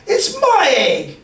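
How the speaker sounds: high, slow indignant sputter. A narrator's reading. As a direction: sputter it out, offended. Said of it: "she sputtered".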